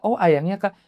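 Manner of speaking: mildly naive, rising "oh"; retold innocent acknowledgement; innocent reply. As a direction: answer as if guilelessly taking it in. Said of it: "Dengan polosnya saya nyautin".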